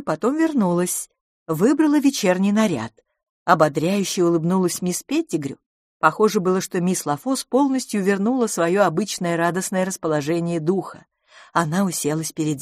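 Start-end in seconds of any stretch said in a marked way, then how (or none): none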